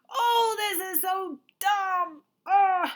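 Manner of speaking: high, loud, slow disgusted complaint; mock fed-up kid. Teacher acting a student annoyed at multiplication. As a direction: groan it out like a frustrated kid. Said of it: "instead of saying".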